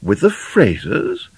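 slow, high, rising question; surprised. A narrator's reading. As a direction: echo it back in a surprised mother's voice. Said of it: "asked Missus McLeodlaw in surprise".

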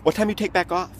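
quick slurred street phrasing; Ebonics phrasing. Retold or imitated. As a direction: clip it like a local brother. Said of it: "It was an Ebonic phrase".

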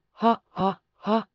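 understated, spoken "ha ha ha"; mocking laugh. A narrator's reading. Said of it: "ja Miller hävisi hämärään ivallisesti nauraen". (hillitty ivallinen nauru)

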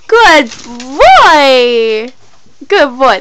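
loud, warm praise for the dog; squeaky praising a dog. Real, not acted.

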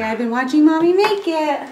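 put-on high, quick little baby voice. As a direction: speak for the baby, high and fast.

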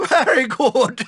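"Very good!" said through a laugh; laughing praise. Acted. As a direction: chuckle your way through "Very good!".

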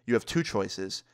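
measured, imitated warning with pauses between options; real serious. Basketball player warning the skaters, real serious. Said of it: "this guy gets real serious".

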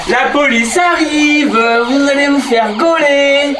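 slow warning. Pretend. Threatening intruders, slow.

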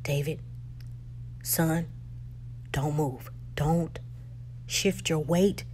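low, soft, pleading calm; hushed urgent plea. Retold or imitated. Father to son on a landmine, hushed and urgent. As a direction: keep your son still with a hushed plea.

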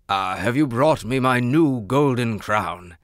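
eager king. Acted. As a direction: lean in eagerly. King eager for his crown.

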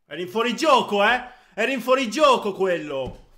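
loud, high angry protest; explosive italian cursing. Real, not acted. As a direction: yell at the referee's mistake. Protesting an offside goal.

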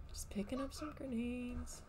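soft sneaky whisper. Real, not acted. Sneaking around in game.

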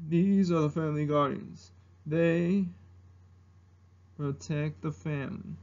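low, measured, stern elder; first ancestor. Acted. Ancestor introducing the family guardians, low solemn impersonation. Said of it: "and the first ancestor from Mulan".

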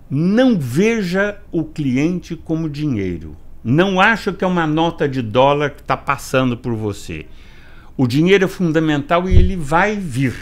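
firm, deliberate instruction with stressed key words; emphatic coaching. Retold or imitated. Boss instructing floor staff in training, emphatic. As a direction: drive each point home like a staff trainer. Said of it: "Eu sempre disse em todos os treinamentos".

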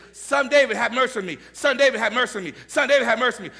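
loud pleading call, high and strained; calling out from afar. Retold or imitated. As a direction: cry out begging from far back up the hill. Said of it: "she started way back on the hill saying".

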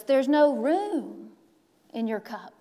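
put-on slowed, deliberate old teacher; lightly voiced calm old master; slow wise man. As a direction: spell it out slowly. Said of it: "He says".

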